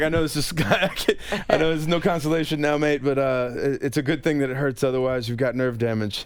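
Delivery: lightly voiced Scottish paramedic, half-laughing; attempted Scottish accent. Ambulance guy consoling the burned actor, faint Scottish accent. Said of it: "he's like".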